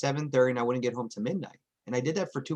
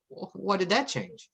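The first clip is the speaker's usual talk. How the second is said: slow, higher, puzzled disbelief; mock bafflement; 6 semitones higher than usual. Dad mocking his own confusion at the kids' change, slow and baffled. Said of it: "And I'm like".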